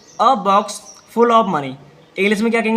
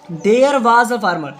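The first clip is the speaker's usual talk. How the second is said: very slow and deliberate; slow dictation; 3 dB louder, much slower than usual. Shown as a demonstration. Teacher reading to pupils, very slow. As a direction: lay each word down for repeating. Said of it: "आपको repeat करना है".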